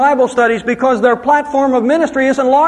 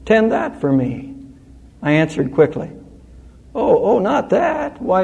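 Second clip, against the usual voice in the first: poem recitation; 3 semitones lower than usual. Shown as a demonstration. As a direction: recite the poem gently, a touch lower. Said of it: "A poem goes like this".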